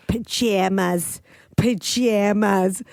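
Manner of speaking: slow, drawn-out repeat of pajamas; dad imitating the way the kids say it, slowly. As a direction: stretch each pajamas out, mocking the word. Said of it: "he's like".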